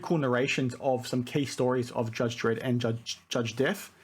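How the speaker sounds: tripping over the words; stuttering. Real, not acted. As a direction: stumble and repeat words. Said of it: "I'm stuttering a lot".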